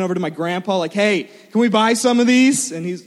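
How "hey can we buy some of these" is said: loud, higher-pitched eager plea; excited kid asking. Retold or imitated. Grandson runs over to grandpa, excited request. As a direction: call out eagerly, like a child wanting a treat.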